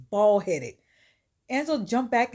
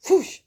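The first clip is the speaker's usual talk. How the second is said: quick airy whoosh; imitated whoosh; 9 semitones higher, 8 dB louder than usual. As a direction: make a sudden whoosh noise. Imitates the hand's quick movement.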